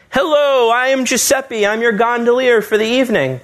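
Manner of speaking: high, lilting mock Italian accent; cheap Italian accent. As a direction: greet them like a hammy Italian gondolier. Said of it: "in a very cheap Italian accent".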